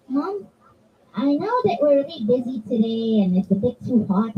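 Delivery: reasonable, grown-up request; measured, considerate asking; asking maturely. Shown as a demonstration. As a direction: ask politely like a responsible big girl. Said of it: "How would you ask as an adult?".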